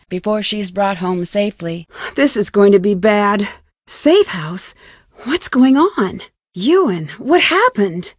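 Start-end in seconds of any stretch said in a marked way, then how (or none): 2.2-8.1 louder, urgent alarm with rising questions. Acted. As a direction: call out as danger suddenly hits. Alarmed reaction to sudden danger.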